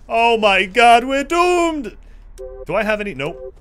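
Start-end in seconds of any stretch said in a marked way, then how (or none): 0.1-2.0 mock panic.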